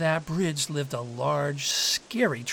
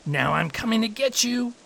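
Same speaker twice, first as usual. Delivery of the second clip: raised, louder storybook threat; threatening troll; 8 semitones higher, 5 dB louder than usual. A narrator's reading. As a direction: pounce on the goat in words. Troll threatens the little goat.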